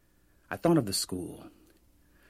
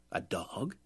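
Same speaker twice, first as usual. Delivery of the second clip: puzzled whisper; 7 dB quieter than usual. A narrator's reading. Puzzled narrator asks.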